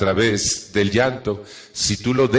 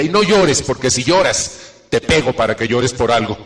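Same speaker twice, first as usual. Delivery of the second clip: imitating scolding mom; 2 semitones higher, 4 dB louder than usual. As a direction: scold the child like an exasperated mother. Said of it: "Mi mamá cuando yo lloraba decía". (madre regañando, imitada, aguda y fuerte al inicio)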